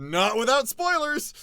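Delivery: loud, slow teasing cry; playful exclaim. Real, not acted. Streamer teasing chat about story spoilers, playful loud cry. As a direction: tease the chat, drawing it out.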